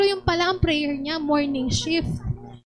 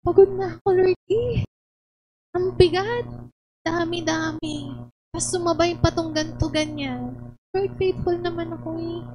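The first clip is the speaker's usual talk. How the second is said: higher, pleading complaint; tired worker begging God for relief; weary plea to God; 4 semitones higher than usual. Retold or imitated. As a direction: whine your tiredness to the Lord. Acted weary complaint to Lord.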